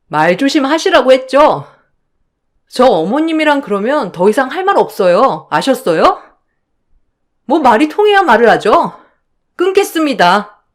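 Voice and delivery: crisp, cold retort before hanging up, lightly voiced; fed-up young wife ending the call; indignant daughter-in-law. Daughter-in-law answering her mother-in-law back, lightly voiced.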